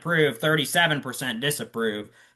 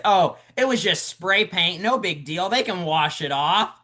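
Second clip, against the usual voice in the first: lightly mocking a breezy brush-off, pitched higher; dismissive downplaying; 5 semitones higher than usual. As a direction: imitate someone waving it away as nothing. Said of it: "trying to downplay that and say".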